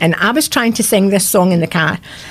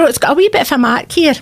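kindly shopkeeper; 5 semitones higher, faster than usual. Retold or imitated. Shopkeeper voiced, knocking price off.

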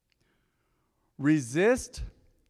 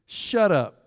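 cutting him short; 4 semitones higher, 3 dB louder than usual. Retold or imitated. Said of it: "Jesus cut him short".

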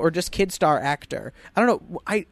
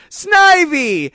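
high, loud cartoon creature cry; imitated creature yell; Snivy; 10 semitones higher, 10 dB louder than usual. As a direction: shout your own name like a little monster. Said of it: "He comes back and he goes".

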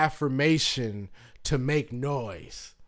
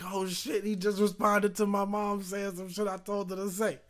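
laughing disbelief; 6 semitones higher, 4 dB quieter than usual. Retold or imitated. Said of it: "I was like".

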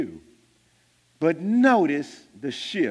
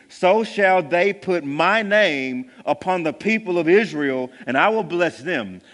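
raised, solemn scripture reading; 2 semitones higher than usual. Acted. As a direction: read the blessing aloud to the congregation. Reads Numbers aloud in sermon.

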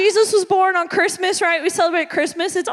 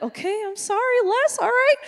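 mock apologetic; 4 semitones higher than usual. Scolded kid apologizing to her dad, mock sheepish. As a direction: give in meekly with a pleading lift.

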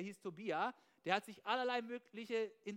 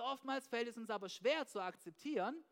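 ordinary talk

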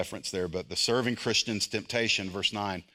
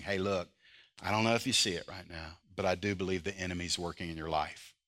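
soft, lower, gentle pastoral words; disarming and loving; 3 semitones lower, 3 dB quieter than usual. Retold or imitated. Believer gently approaching a brother being sifted, soft and caring. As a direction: speak it quietly, all love, no accusation. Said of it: "That is so disarming".

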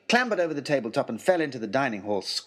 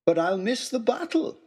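smiling; 9 semitones higher than usual. Acted.

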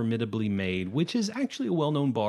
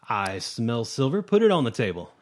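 gnome; 3 dB louder than usual. Acted. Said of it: "he just goes".

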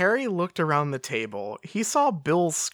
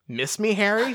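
playful higher-pitched greeting with a grin; grinning tease; 8 semitones higher than usual. A narrator's reading. Sirius greeting Harry on his return, grinning tease. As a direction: ask it grinning, lifted in pitch.

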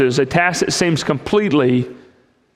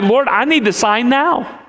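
impatient demand; 7 semitones higher than usual. Retold or imitated. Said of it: "but I'm kinda like".

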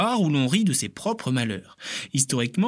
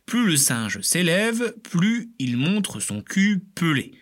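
lightly voiced Lucy quote; 4 semitones higher, slower than usual. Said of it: "l'Australopithèque Lucie aurait déclaré".

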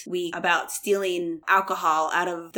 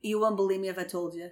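put-on Boston accent; 2 semitones lower, 5 dB quieter, faster than usual. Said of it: "I don't think your Boston accent".

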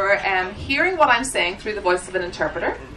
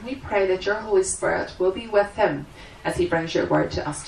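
prayer; 2 semitones lower than usual. Acted. Opening prayer before the seminar.

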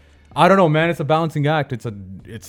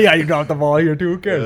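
careless voice; 6 semitones higher, 8 dB louder than usual. Retold or imitated. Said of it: "your boy's like".

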